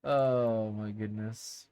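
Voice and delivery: low, slow, drawn-out exclamation. Real, not acted. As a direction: let it out low, soft and slow. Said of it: "talking about my tone of voice".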